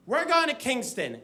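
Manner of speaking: put-on high, hyped-up call to the girls; mock party-girl squeal rallying her friends; excited party girl. Girls hyping up night out.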